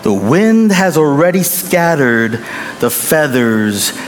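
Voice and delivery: gently. Retold or imitated. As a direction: explain it kindly, slowing down. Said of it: "The pastor spoke gently".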